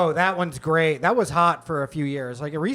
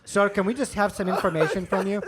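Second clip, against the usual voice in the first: imitated call-center scammer accent; odd, imperfect American accent. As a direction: fake agent with a foreign accent. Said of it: "the accents are all, they can't do".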